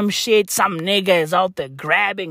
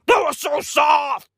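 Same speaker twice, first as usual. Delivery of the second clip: mock gush; 5 semitones higher than usual. Mock gushing over softness.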